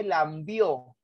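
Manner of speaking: "lambió" con una b metida, muy lento; barbarismo lambió. Shown as a demonstration. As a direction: marca la b de "lambió" como error. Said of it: "en vez de decir lamió, dice lambió". ("lambió" lento, con b añadida)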